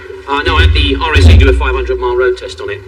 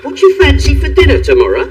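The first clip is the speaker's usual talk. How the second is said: incredulous echo; 12 semitones higher than usual. Acted.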